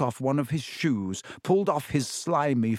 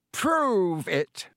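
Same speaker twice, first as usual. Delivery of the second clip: a tense, higher cold hiss; 7 semitones higher than usual. Acted. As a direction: spit it through the teeth. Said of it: "he hissed".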